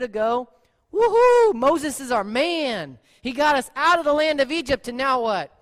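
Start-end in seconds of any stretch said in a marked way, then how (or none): 0.9-1.5 loud, high whoop; mock cheering. Crowd cheering their leader, a loud high woohoo. 1.5-4.0 mock praise. Mock Israelites praising Moses.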